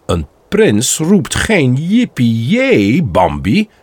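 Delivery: a hint of a slow, measured father; lightly voiced father, slowly correcting; father correcting his son, lightly voiced and slow; stern prince father. Father gently corrects Bambi.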